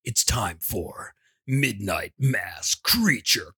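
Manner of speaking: ringmaster. Acted. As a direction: sweep in like a spooky circus ringmaster. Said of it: "Now I'm creeped out".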